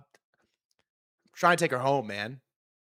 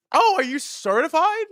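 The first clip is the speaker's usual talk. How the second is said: put-on higher, sweet probing girl; mock bar girl asking innocently; high girly voice; 8 dB louder than usual. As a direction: play her sugary and curious.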